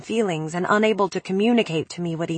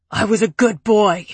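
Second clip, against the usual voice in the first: anguished cry, a little louder; cried out; 4 dB louder than usual. A narrator's reading. Preppy crying out to the room, anguished. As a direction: cry it out like a broken man. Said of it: "he cried out".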